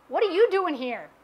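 YOU lifted in pitch, rest falling away; stress on YOU. Shown as a demonstration. Preacher trying out God's question to Elijah, stress on "you". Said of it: "we put our own intonations in".

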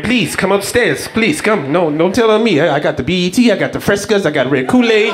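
imitated man begging for silence; hammed-up begging; mock pleading. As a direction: plead and bargain in a put-on voice. Man pleads after la migra shout.

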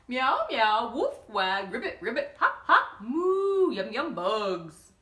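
playful, laughing animal sounds; animal noises. Acted. Bob the rooster listing his sounds, laughing. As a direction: rattle them off with a giggle.

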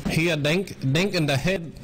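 put-on thick Asian accent, broken English; game callouts in a thick Asian accent. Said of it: "he has a thick accent".

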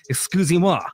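put-on haughty French accent on Excusez-moi; arrogant French. Pretend Frenchman to the crowd, haughty French accent. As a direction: sniff out Excusez-moi like a snobby Parisian. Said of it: "arrogantly holding my head up and saying".

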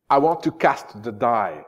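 slow, grave I want to cast the die; Richard's last line. Acted. Richard answering his squire, slow grave declamation. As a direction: deliver the king's final vow. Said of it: "il dit".

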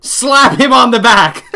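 loud gleeful command. Acted. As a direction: call it out like a prank order.

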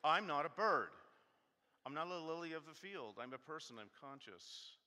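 loud, exasperated rant at Jesus; hammed-up outrage, words punched; mock anger. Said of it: "I'm sorry I'm getting angry".

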